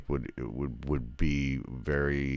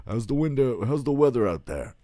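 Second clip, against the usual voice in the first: much higher, louder, sing-song parody voice; high mocking parody of a cheesy line; mock movie dialogue; 10 semitones higher, 6 dB louder than usual. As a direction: lampoon the stilted small talk.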